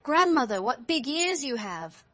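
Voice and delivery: high, loud exclamation, then drawn out; amazed. A narrator's reading. Girl marvels at grandmother's legs, loud amazement. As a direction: call her name high, then marvel slowly.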